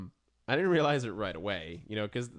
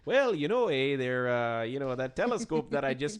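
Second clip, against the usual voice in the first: mock the actor's flat local delivery; hammed-up local actor playing Galileo, pitched up; no accent at all; 3 semitones higher, 4 dB louder than usual. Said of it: "he's like".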